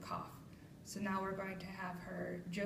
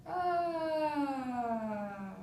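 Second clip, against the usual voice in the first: steady sustained ah, a bit higher; demo held vowel; 5 semitones higher, 3 dB louder than usual. Shown as a demonstration. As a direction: hold one pitch on ah. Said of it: "So you're going".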